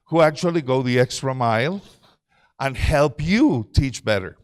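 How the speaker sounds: ordinary talk, nothing marked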